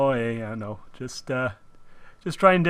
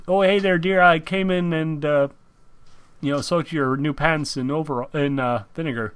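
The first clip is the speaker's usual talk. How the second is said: put-on lilting Minnesota accent, raised opening; 2 semitones higher than usual. Playing a mom reporting on soaked overalls, Minnesota accent. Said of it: "Having you mimic Patty's accent".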